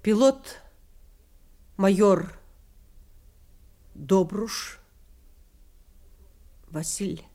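measured, solemn voice-over narration; documentary narration. A narrator's reading. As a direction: read it like a wartime chronicle. (торжественное закадровое повествование)

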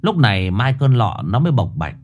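ordinary delivery

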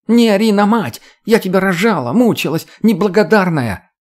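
high, loud, wounded outrage; mother's screaming rebuke. A narrator's reading. Mother scolds ungrateful daughter in a quarrel, screaming. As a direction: scream back, voice way up.

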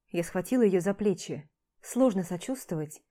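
usual speaking voice

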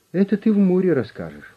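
high, amused smiling retort; smiling jab at the stubborn boss. A narrator's reading. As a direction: say it with a knowing smile. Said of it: "улыбнулся Константин Гаврилович".

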